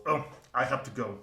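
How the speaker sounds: hurried dwarf. Acted. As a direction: rush off but warn him kindly. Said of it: "and goes".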